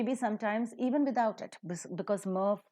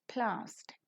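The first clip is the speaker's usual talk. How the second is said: whispered plastic; 3 semitones higher, 7 dB quieter than usual. Shown as a demonstration. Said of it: "plastic is accented".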